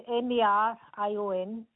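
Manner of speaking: letter by letter; spelling it out. Real, not acted. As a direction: spell the name out. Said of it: "would you mind just spelling that for me".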